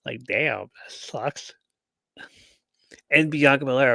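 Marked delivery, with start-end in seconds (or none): 0.3-1.5 slow, soft whispered aside; whispered quip. Retold or imitated. Vlogger voicing Bayley with a slow whisper. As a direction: breathe it out as a dry aside. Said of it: "who looks all like".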